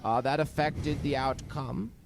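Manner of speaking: put-on accent sliding from British to German; wobbly mock British turning German; shifting British-German accent. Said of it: "He sounds British and then German".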